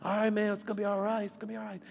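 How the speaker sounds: high-pitched repeated soothing; consoling. Retold or imitated. Repeated consoling of the crying man.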